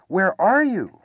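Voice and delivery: high, loud, eager question; eager cry. A narrator's reading. Pooh calls to the unseen Piglet, eager cry. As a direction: call out eagerly for a friend. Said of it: "cried Pooh eagerly".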